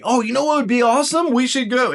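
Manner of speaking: high, quick burst of enthusiasm; excited spontaneity. Acted. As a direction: blurt a sudden great idea. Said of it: "they're like".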